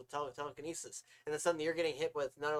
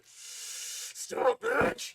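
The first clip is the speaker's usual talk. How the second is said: high, loud mock yell to a speeding car; hammed-up commanding yell; mock shout; 4 dB louder than usual. Mock yell at a racing car while crossing the road.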